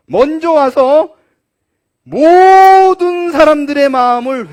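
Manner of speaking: fervent preaching. Acted. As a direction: proclaim the prophecy with full force. Preaching at full force. (힘 있게 외치는 설교)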